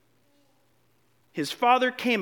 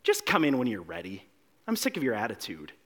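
exasperated parent; 9 semitones lower, 5 dB quieter than usual. Retold or imitated. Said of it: "would the parents say".

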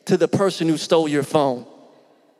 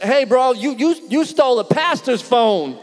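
laughing gotcha; 7 semitones higher than usual. Retold or imitated. Neighbor laughing at the thief who stole a pastor's phone. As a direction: crack up while catching him out.

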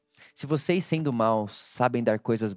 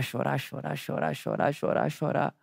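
crying; 5 dB quieter than usual. Retold or imitated. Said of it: "eu comecei a chorar".

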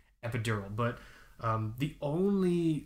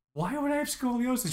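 much higher, incredulous mock voice; hammed-up outraged question; imitating wife; 12 semitones higher than usual. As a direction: mimic her disbelief up high. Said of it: "my wife's like".

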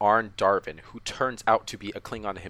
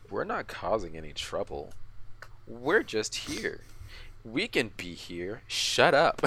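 condescending. Retold or imitated. Host mimics the Klingon defending himself to the crew, mildly condescending. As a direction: imitate someone talking down, drawing it out. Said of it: "a little condescending, where he's like".

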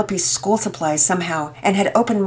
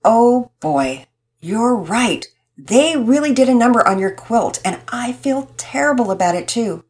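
serious tone; 4 semitones higher than usual. Acted. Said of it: "speak in a serious tone".

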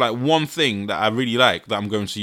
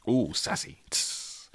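sassy tease; 11 dB quieter, slower than usual. Real, not acted. Teasing the acronym.

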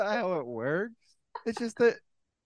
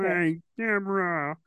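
Ray Romano impression; slower than usual. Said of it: "Okay, Ray Romano".

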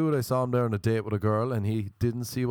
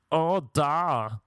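higher, affected mock-grand answer; theatrical English-sounding man; 5 semitones higher than usual.

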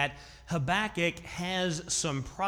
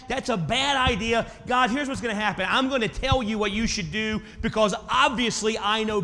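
brazen complaint; 4 semitones higher, 5 dB louder than usual. Acted. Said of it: "He goes to God and says".

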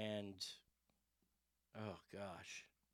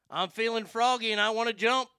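fired up; 7 semitones higher, 8 dB louder than usual. Real, not acted. Fired up about being threatened.

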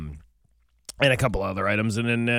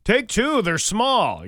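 mock cheery offer; 9 semitones higher, 4 dB louder, much slower than usual. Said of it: "when somebody hands out".

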